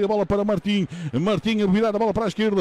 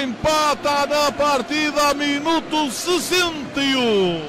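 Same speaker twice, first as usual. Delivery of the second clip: excited commentary; 6 semitones higher, slower than usual. Real, not acted. After the goal, still excited.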